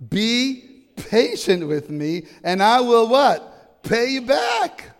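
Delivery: loud, high plea with drawn-out words; imploring. A narrator's reading. Servant begging his creditor for patience, loud imploring. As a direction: plead for time as a storyteller would. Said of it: "implored him".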